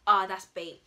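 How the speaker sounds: loud, knowing call of "bait" with a long "Ah"; loud callout. Acted. To a friend lying badly, loud knowing callout. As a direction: call them out loudly on an obvious lie. Calling out an obvious lie.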